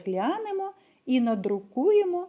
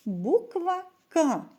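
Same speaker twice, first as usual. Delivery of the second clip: the title Буква К. read slowly, pitched up; slow, higher announcement of "Буква К"; slow announcing read; 5 semitones higher than usual. Shown as a demonstration. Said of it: "teacher models the verse title".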